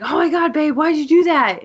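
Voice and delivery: mock embarrassed guy. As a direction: whine it at the girlfriend. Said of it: "the guy was like".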